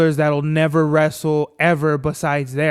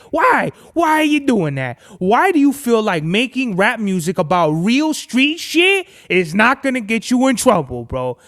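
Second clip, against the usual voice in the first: exasperated questioning; 4 semitones higher, 3 dB louder than usual. Real, not acted. Exasperated at rappers living their raps.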